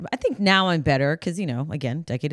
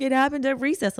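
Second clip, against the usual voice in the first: put-on child voice; 8 semitones higher, faster than usual.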